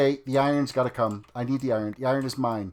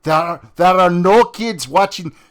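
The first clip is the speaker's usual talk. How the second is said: emphatic denial; 7 dB louder than usual. Real, not acted. Rebutting chat, no kids watching.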